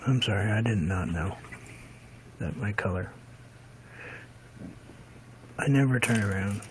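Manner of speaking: holding back hiccups; talking through hiccups; suppressing hiccups. Real, not acted. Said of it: "Sorry, I have hiccups".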